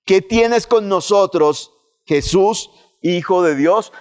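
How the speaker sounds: slow, drawn-out plea with a hint of anguish; mildly voiced demons begging Jesus; pleading cry. Demons crying out to Jesus, understated desperate plea. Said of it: "es un grito desesperado".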